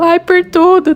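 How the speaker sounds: high, tearful retold reply while crying; teary high-pitched voice, half sobbing. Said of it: "eu comecei a chorar".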